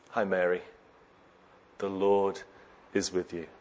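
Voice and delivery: soft, quiet "Hi, Mary"; gentle greeting. Pretend. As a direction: speak it gently so she is not startled. Angel greets Mary while sweeping.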